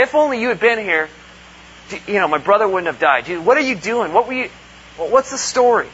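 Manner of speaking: pleading reproach at Jesus; mild mock accusation; accusing grief. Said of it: "there's almost a sense of, of accusation".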